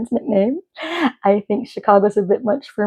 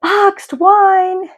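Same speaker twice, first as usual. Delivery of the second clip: high excited squeal of a friend; a friend teasing about cheap wine, high and squealing; friend's squeal; 12 semitones higher, 4 dB louder than usual. Retold or imitated. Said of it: "my dear friends is like".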